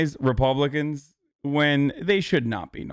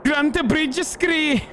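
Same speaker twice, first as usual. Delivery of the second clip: very high, slow, drawn-out silly voice; mock name reading; 12 semitones higher, 4 dB quieter, slower than usual. Streamer reading out strange names in a high, slow put-on voice. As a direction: draw each name out high, in hammed-up grandeur.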